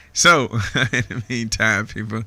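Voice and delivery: can't stop laughing while talking; real amused laughter in the voice. Real, not acted. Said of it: "I'm just laughing".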